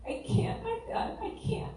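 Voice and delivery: high, soft whimpering despair; broken whimper. Retold or imitated. Retelling her collapse to listeners, high whimper. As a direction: whimper as the last strength goes. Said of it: "sobbing, saying".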